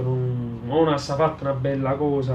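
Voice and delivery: normal talking voice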